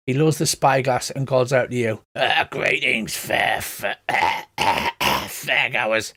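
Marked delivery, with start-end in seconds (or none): 2.2-6.1 put-on slow, stumbling old goblin voice; a hint of a creaky old goblin; elderly goblin greeting. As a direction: fumble the greeting like a doddering goblin.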